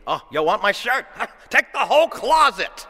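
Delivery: high, loud, laughing mock offer; laughing exaggeration. Preacher mocking a petty shirt dispute, laughing. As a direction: toss it off with a laugh. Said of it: "a kind of an exaggeration".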